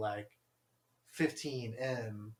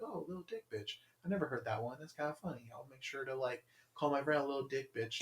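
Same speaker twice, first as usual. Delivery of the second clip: mock sarcasm; 8 dB quieter, faster than usual. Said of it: "And I'd be like".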